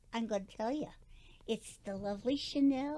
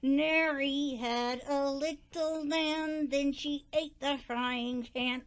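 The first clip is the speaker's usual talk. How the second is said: parrot recitation. Acted. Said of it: "singing puppet".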